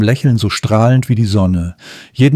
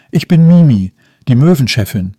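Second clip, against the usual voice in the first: proud announcement; 2 semitones higher, 3 dB louder than usual. Acted. Seagull boss introduces herself to Leo, proud announcing. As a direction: puff up and announce yourself. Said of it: "verkündete die Möwe stolz".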